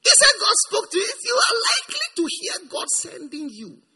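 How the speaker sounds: loud, high preaching cry; a fervent preacher's shouted appeal. Real, not acted. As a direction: shout it to the congregation.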